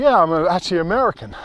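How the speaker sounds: a light American accent, barely put on; quoting the chap in a mild American accent. Retelling the chap's reply to viewers, lightly American accent. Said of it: "forgive me going into my American there".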